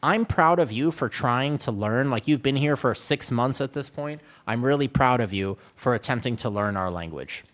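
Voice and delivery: mock-encouraging, loud and deliberate; imitated proud locals. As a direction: praise a struggling beginner, slightly hammed-up. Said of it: "they look at me and they're like".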